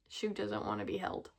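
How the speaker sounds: laughing low and soft through the words. Real, not acted. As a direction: giggle it out as she squirms. Laughing at the bunny.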